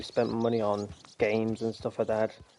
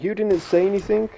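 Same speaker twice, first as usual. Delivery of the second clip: high, louder indignant quote; Jessica voice; 9 semitones higher, 4 dB louder than usual. Retold or imitated. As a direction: squeak it out as Jessica. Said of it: "where Jessica's like".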